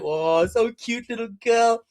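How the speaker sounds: put-on slow, drawn-out baby-talk coo; put-on cooing man; mock cooing. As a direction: gush slowly over a cute toddler. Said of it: "And he was like".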